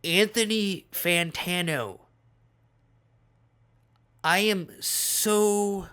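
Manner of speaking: slow, halting, overwhelmed gratitude; heartfelt relief. Retold or imitated. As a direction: speak slowly with long pauses, deeply relieved. Acted relieved greeting to man thought dead.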